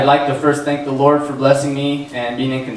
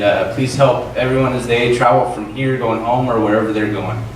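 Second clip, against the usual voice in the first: rushed mumbled prayer; 4 semitones lower than usual. Real, not acted. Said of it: "just say a quick prayer real quick".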